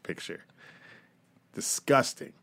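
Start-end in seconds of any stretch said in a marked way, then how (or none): 1.5-2.3 breathy hushed disgust; whispered disgust. Real, not acted. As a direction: hiss it under your breath. Whispered disgust after rant.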